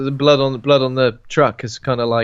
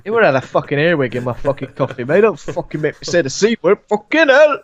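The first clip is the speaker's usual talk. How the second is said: mock angry rant; 3 semitones higher than usual.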